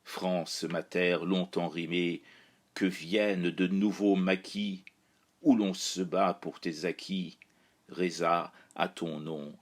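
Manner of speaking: measured, even-toned verse reading with little pitch movement; steady incantatory poetry voice, falling away at stanza ends; poem recitation. Acted. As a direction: recite it solemnly, line by line, pausing between verses. Recites the poem dedicated to France.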